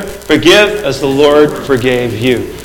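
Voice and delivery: very slow, weighty, "Forgive" leaned on; slow solemn quote. Acted. Pastor quoting the Lord's command, very slow. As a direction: lay each word down slowly.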